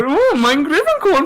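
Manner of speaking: high, playful mock German accent; "mein Griffin Corn" in a hammed-up German accent. Friend teasing host, in a mock German accent. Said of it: "you go".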